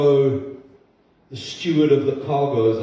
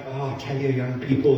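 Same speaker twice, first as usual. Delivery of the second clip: imitated English preacher's accent; a quick touch of English-accented preaching. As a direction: lightly put on an English accent. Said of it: "like, an English accent".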